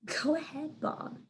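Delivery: soft amused whisper. A narrator's reading. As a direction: whisper it with a grin. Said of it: "she whispers".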